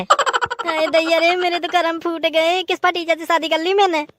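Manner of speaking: slow, drawn-out theatrical wail; mock lament. Bride seeing the rickety bicycle, mock lamenting. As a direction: bemoan your fate, stretching the words.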